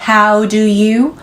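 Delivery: very slow, every vowel drawn long; stretched out. Shown as a demonstration. Teacher drags the vowels out for students, very slow. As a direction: stretch each long vowel as far as it goes. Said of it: "소리가 계속 늘어나고 있죠".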